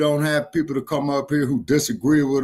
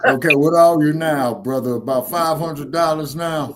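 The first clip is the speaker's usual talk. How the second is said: louder, to be heard; louder repeat; 3 dB louder than usual. Real, not acted. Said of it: "Say what?".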